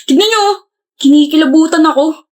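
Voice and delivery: high squealed mock shudder; mock disgust. Friend mock-shuddering at pals' girlfriend talk. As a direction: act grossed out, pitch jumping up.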